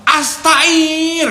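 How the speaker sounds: very high loud yell; shout. Retold or imitated. Officer yelling at the crowded mess hall, loud shout. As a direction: shout it out across the dining hall. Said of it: "dia teriak".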